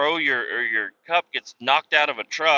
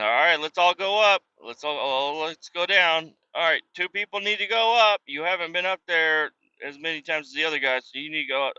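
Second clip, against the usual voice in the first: mock bossy instructor; 5 semitones higher than usual. Mocking the training instructor.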